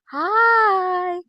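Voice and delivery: loud, high-pitched drawn-out hello; high cat greeting. Real, not acted. Owner to the cat acting up, high squeal. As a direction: sing out a greeting to a pet. Calling to her misbehaving cat.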